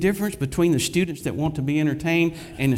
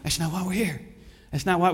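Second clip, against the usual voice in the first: normal talking voice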